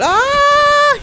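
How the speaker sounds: sudden loud, very high shriek; high scream. Real, not acted. Gamer caught mid-match, loud high-pitched scream. Startled during the game.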